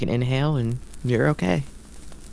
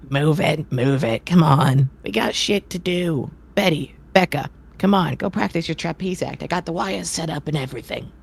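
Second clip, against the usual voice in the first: ringmaster barking; 5 semitones higher than usual. Acted.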